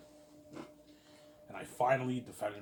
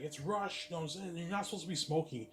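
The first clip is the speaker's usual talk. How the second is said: boss scolding; 8 semitones higher than usual. Retold or imitated.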